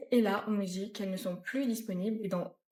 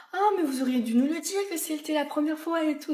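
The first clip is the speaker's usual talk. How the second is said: higher-pitched retold gushing; gushing colleague; 5 semitones higher, 4 dB louder than usual. Shop colleague hearing it's her first purchase, gushing. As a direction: exclaim it, pitched up and effusive.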